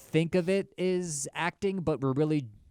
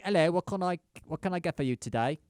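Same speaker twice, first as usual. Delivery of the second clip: mock British shopkeeper; 4 semitones higher than usual. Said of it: "this is a scene".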